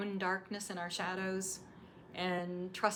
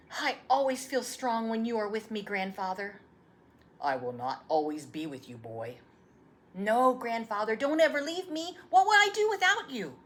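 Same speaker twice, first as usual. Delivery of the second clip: rising, louder plea not to be left; pleading boy; 3 semitones higher, 8 dB louder than usual. Acted. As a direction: beg him not to leave.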